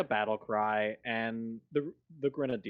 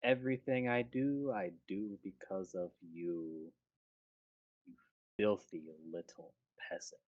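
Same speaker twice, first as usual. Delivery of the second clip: cold villain voice; 2 semitones lower, 6 dB quieter than usual. Acted. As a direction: purr the contempt like a polite villain.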